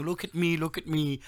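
high, loud hammed-up Russian voice; mock Russian. Host playing a Russian fan of Hitler, in a loud hammed-up Russian accent. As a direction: shout it in a bad Russian accent. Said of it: "And he's saying".

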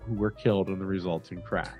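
ordinary talk

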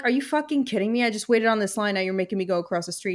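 a touch of disbelief, pushing back at the guard; retold exasperation. To the stadium guard over her laptop, mildly exasperated. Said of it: "And I'm like".

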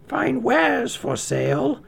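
put-on high, slow old crone calling; disguised queen crying her wares; old peddler call. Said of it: "she cried".

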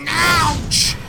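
very high, loud yelp; spider ouch. Acted. Spider hit in the eye by a flame, high loud yelp. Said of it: "and he goes".

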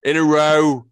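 loud high In a row; emphatic disbelief. Real, not acted. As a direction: stress it like it's absurd. Stressing an absurd challenge.

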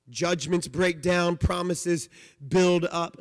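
preacher slowly pressing home Judgments break down and promises build up; slow emphatic preaching. Real, not acted. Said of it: "and that's the point".

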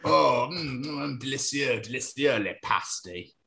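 savouring mock French accent with a Cornish slip; badly faked French accent turning West Country; French sliding into Cornish. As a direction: relish it in wobbly, put-on French. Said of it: "more of your Cornish impression then".

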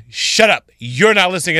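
lightly acted irate customer; retold angry caller. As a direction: imitate a caller cutting in, mildly heated. Retold caller interrupts her again.

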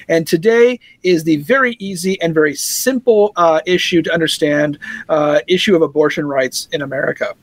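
dry sarcasm, pretending it's simple; sarcastic. Real, not acted. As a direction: say it as if the topic were easy. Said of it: "If you couldn't tell the sarcasm in my voice".

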